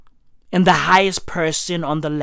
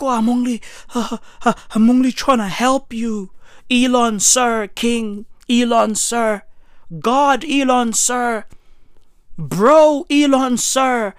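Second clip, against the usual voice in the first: higher-pitched, stammering grovel; mock fawning plea; 4 semitones higher, 3 dB louder than usual. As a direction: beg like a flustered hanger-on. Voices a fawning man appeasing Elon.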